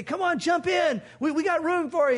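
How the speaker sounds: calling out. Retold or imitated. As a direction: shout them into the boat.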